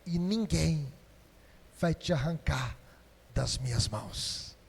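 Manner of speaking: soft and low, fading almost to nothing; Jesus speaking gently into each listener's heart; tender voice of Jesus. Acted. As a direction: whisper the promise like a comforting Jesus. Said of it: "Jesus fala assim com você".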